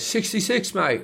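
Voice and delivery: high, proud heckler retort; English heckler. Retold or imitated. English man at the gig corrects Carl, high cocky retort. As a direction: throw it back high and cocky. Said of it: "the man goes".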